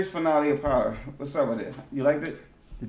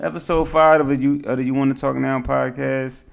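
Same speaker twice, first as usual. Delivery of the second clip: full, projected podcast host intro; put-on radio host delivery. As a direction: announce it in your podcast voice. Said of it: "that's my radio voice, dog".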